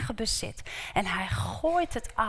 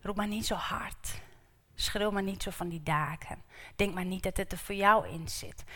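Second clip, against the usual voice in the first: mild hushing; 6 dB quieter than usual. Retold or imitated. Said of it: "Waarvan ik denk".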